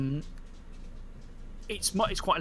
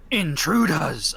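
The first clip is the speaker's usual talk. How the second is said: spirit shout; 6 dB louder, slower than usual. Acted. Bone spirit repeating challenge.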